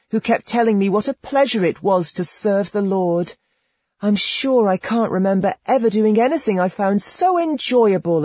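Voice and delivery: put-on delighted girl. A narrator's reading. Girl tells Rustico how much she enjoys serving, high eager voice. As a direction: gush like an innocent convert.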